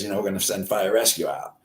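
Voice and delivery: ordinary talk, nothing marked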